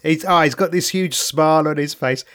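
usual speaking voice

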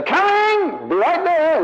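put-on high, drawn-out child calling back; child answering mother. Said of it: "And I'd say".

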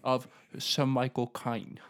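put-on Cockney-tinged British voice; Michael Caine. Podcaster asking listeners for impressions, in a Michael Caine voice. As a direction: finish the line in a British impression. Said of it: "accents and impressions".

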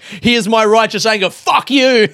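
self-mocking angry rant; mock righteous anger. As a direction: play at righteous fury, half laughing. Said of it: "an outlet that I can be angry".

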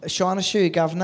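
brief mock London accent. Co-host answering a request for London accent, mock Cockney. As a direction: toss off a hammy London line. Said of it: "London accent, please, Tom".

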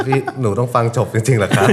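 laughing through a whiny student's plea; half-laughing imitation of a bored pupil; laughing mock student. Joking about students forced to hear the hymn, laughing mock whine. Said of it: "นักเรียนนั่งนั่งเหม่อแบบ".

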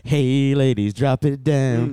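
slow, drawn-out party call; imitated song intro. Co-host imitates the record cutting in, slow mock hype. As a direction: draw it out like a hype track. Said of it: "And then it's like".

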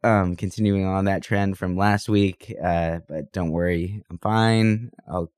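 talking while sick. Real, not acted. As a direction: voice worn from a cold. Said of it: "I'm also sick".

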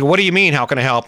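a touch of confused disbelief, rising on mean; puzzled, throwing his words back at him. Retold or imitated. Wife baffled by husband's kind answer, mildly confused. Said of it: "she was confused".

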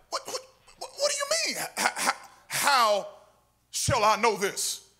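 squeaky high stammer, slowing down; mock the fumbling doubter in a squeaky voice; mocking Zacharias. Preacher mocking Zacharias' stammer, squeaky and high. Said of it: "And so he's like".

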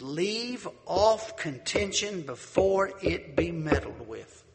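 slow, solemn verse reading; scripture reading. Acted. Preacher reading Proverbs to the congregation, slow and solemn. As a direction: read it like holy writ.

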